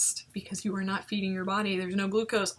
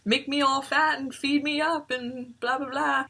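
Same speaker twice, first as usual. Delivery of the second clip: bright, higher fake-cheery voice; sarcastic fake cheer, raised pitch; mock cheerful; 6 semitones higher, 4 dB louder than usual. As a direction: put on a happy act. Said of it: "I put on this face like".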